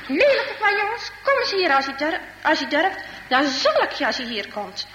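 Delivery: put-on high, angry call at the boys; old man yelling out the door; angry old man shouting. Old Jochem shouts at the naughty boys from door. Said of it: "hij roept".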